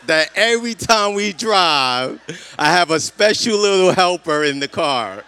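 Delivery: real amused laugh in the words. Real, not acted. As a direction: chuckle while calling her a little helper. Teasing gratitude for wife's help.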